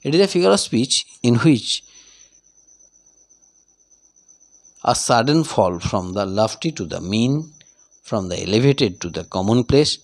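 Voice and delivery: unhurried classroom dictation; slow dictation. Shown as a demonstration. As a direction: read the definition very slowly, word by word. Dictates the definition.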